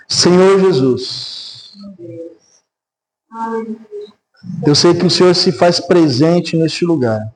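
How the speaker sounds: slow, measured congregational prayer. Real, not acted. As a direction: pray aloud, drawing out the phrases with long pauses. (oração pausada e solene)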